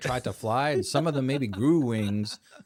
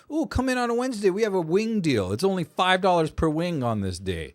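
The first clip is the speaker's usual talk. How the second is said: mock restaurant pitch; 3 semitones higher, 4 dB louder than usual. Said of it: "a place that's like".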